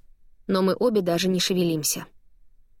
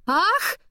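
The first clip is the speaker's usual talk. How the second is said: startled cry; 11 semitones higher than usual. Acted. Falls into the swamp.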